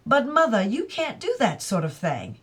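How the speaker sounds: mildly scolding his mother; son's protest. Acted. Son to mother, a touch of stern objection.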